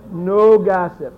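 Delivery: a light British accent played as a prim servant; teacher echoing a student in a mock British accent. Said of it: "if you could do the accent".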